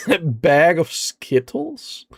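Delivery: slow, laughing through the words; laughing in disbelief. Real, not acted. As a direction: chuckle it out in disbelief. Laughing at a retold company gift.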